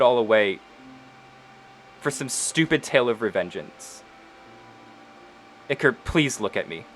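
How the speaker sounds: gentle, hushed plea as Penelope; reach him tenderly. Acted. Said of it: "and she just goes".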